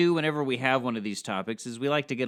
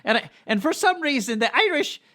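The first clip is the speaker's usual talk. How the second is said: high tenor voice; 12 semitones higher, 5 dB louder than usual. Pretend. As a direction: squeak it up like a tenor. Mocking Irish high voices.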